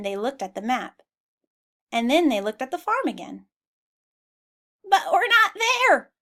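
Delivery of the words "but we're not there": much higher, louder, slow dismayed bleat; high sheep voice, puzzled. Acted. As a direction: bleat it in worry. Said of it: "bleated the sheep".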